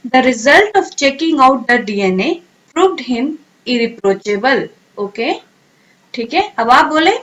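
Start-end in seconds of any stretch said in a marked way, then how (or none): 0.1-4.6 slow, word by word; slow teacher dictation. Shown as a demonstration. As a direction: read it slowly for students to repeat. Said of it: "sentence में कैसे use करेंगे".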